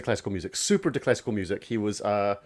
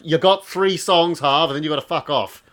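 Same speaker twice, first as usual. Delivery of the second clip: gruff cafe manager; 4 semitones higher, 5 dB louder than usual. Retold or imitated. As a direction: lay down the rules to the busker. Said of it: "where the manager's like".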